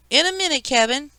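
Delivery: very high imitation of a squeaky aunt; mocking squeak. A narrator's reading. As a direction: mimic an adult in an exaggerated squeak. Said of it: "Kevin imitated Aunt Leslie's squeak".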